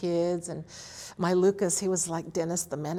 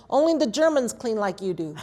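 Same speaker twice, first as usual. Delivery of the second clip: laughing quote; 3 semitones higher, 7 dB louder than usual. Retold or imitated. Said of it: "And then she said".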